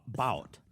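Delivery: "bout" with a little rising whoop in the vowel. Shown as a demonstration. Showing a singer's Texan vowel in "bout". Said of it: "a little whoop in it".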